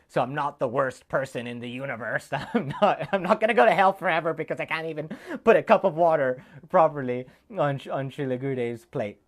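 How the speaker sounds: relieved giggling confession; laughing it out at your own clumsiness. Real, not acted.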